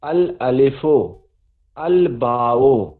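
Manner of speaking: अल अलिफो, अल बाओ slowly, with the al fully heard; slow teacher's demo of अल बाओ, al kept; Arabic moon letters. Shown as a demonstration. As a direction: spell out अल बाओ, lam clearly pronounced. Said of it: "अलिफ लाम पढ़ा है बा से पहले".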